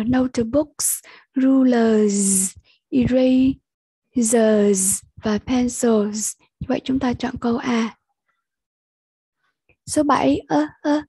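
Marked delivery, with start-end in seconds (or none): 0.0-6.3 slow "notebooks", "rulers", "erasers", "pencils", each ending held; teacher's drawn-out plurals, lingering on each final consonant. Shown as a demonstration. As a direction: model each plural slowly, "notebooks" on a hissed s. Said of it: "Như vậy là âm sờ".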